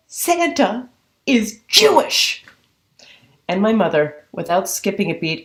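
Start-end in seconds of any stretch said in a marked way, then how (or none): 0.1-2.4 amazed reveal. Retold or imitated. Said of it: "I go".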